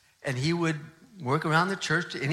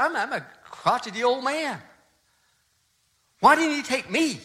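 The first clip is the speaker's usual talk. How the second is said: bitter grief; 7 semitones higher than usual. Retold or imitated. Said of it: "He was just furious with God".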